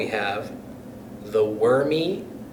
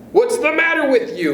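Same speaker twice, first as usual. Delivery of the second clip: Mr Twit mock concern; 14 semitones higher, 4 dB louder than usual. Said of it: "Mister Twit said".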